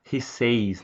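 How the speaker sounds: "says" wrongly said as "seis"; pronúncia errada. Shown as a demonstration. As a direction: show the mistaken "He says" with an ey glide. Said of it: "não". ("says" dito errado, como "seis")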